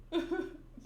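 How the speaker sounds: short mock sob that sounds like a giggle; badly faked crying. Narrator attempts Gaimon's tears and fails, badly faked crying. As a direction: feeble pretend sobbing. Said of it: "I can't fake crying".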